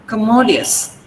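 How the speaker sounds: commodious with weight on MO; stress on MO. Shown as a demonstration. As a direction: mark the second syllable of "commodious". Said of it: "you should mark the stress".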